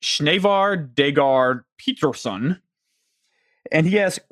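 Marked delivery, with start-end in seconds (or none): 0.0-2.6 careful slow pronunciation. Real, not acted. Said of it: "I'm gonna try to say this guy's name".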